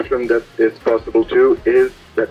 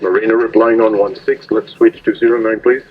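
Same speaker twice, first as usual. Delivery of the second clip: marine radio. Real, not acted. Marina answers over radio.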